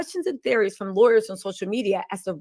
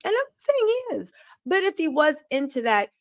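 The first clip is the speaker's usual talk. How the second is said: sarcastic aside; 6 semitones higher than usual. Real, not acted. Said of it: "sarcastic aside, then repeated".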